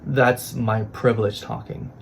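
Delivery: usual speaking voice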